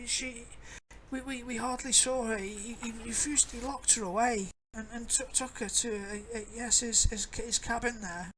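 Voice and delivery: put-on high, stammering old woman; a frightened old crone; old lady voice.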